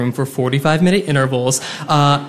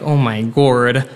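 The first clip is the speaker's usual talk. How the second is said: slow dismay; 5 semitones lower, slower than usual. Retold or imitated. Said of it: "And then I'm like".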